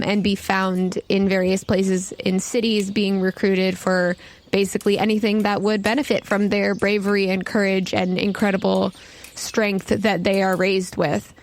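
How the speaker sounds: ordinary talk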